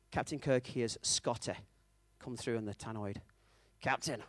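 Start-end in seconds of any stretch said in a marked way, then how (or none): 3.8-4.2 softly attempted Scottish accent; bad Scottish accent. Scotty calling Kirk over the tannoy, bad Scottish accent. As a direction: have a shaky go at Scottish. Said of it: "I can't do a Scottish accent".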